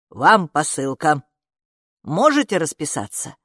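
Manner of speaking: a jittery courier handing over a parcel; nervous courier. A narrator's reading. Courier asks mom to sign, lightly voiced nervous man.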